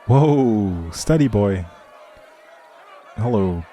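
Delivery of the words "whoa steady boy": calling to horse. Acted. Calming a spooked horse.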